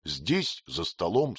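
plain reading voice

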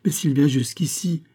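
urgent protest, building toward an outcry; exclaiming. A narrator's reading. Biot objects to Berthier coming here, exclaiming. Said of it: "s'écria Biot".

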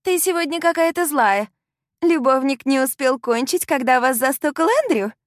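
catty taunt. Acted. Sam mocks the heroine about her lover, catty and high. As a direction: jab at her with sugary venom.

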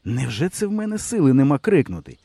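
ordinary delivery, nothing marked

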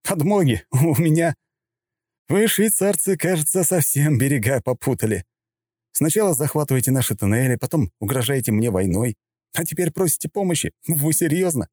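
amused, incredulous scoffing; barely holding laughter. Acted. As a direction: laugh at the request. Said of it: "Я едва не расхохотался в голос".

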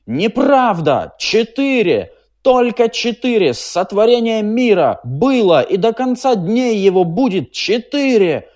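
high, loud hoarse yell. A narrator's reading. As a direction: roar it until your voice gives out. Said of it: "охрипшим голосом орал Трурль". (Трурль орёт охрипшим голосом)

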